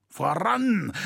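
high, drawn-out call to advance; crowd's rallying cry. A narrator's reading. Mob urging itself on against the cathedral master, rallying cry. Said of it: "rief es aus verschiedenen Kehlen".

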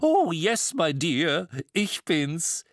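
high, delighted lady's greeting; beaming. A narrator's reading. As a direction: announce yourself with a gushing, lifted flourish. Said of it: "Miss Mistletoe strahlte". (strahlend und hoch, freudig begrüßend)

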